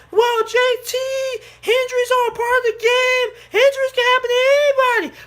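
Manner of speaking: high, whiny mock of a fan. Vlogger mocking fans who excuse injuries, in a high whiny voice. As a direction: squeak out the fans' excuse in mockery. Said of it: "you guys can make the argument".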